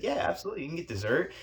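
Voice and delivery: high-pitched, enthusiastic assurance; eager yes. Retold or imitated. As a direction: voice a manager happily saying yes to everything. Manager eagerly confirms free extras.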